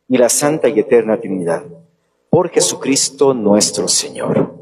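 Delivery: solemn prayer, evenly intoned; liturgical prayer. Acted. Priest recites the closing prayer. (oración litúrgica solemne)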